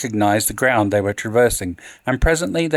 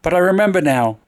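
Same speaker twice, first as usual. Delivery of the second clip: frantic pleading; 6 semitones higher than usual. A narrator's reading. Madwoman pleading with the Count.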